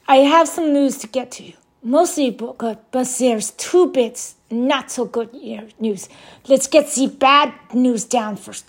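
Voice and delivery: put-on campy Transylvanian vampire accent, lightly done; hammy Dracula-style newsreader; bad vampire voice. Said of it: "Warning, bad vampire voice ahead".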